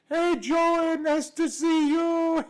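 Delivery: put-on high, slow, sweet old Italian grandmother greeting her grandson; imitating his little grandma, high and slow. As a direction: pitch way up and drawl it out like a tiny nonna in broken English. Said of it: "she spoke in this sweet little voice, broken English".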